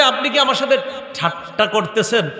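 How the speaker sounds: mock astonished servant; incredulous question. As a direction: ask it in amazed disbelief. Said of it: "এই যে বলবে".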